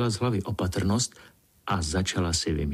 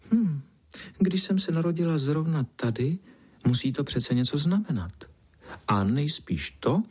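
put-on higher, dreamy, self-admiring girl voice; vain little Pinkalinka; 3 semitones higher than usual. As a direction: daydream about being a princess. Pinkalinka daydreams aloud.

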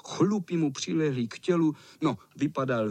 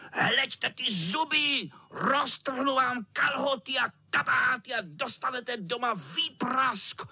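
menacing cat; 9 semitones higher than usual. A narrator's reading. Cat threatens the boys with his claws. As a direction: savour each threat.

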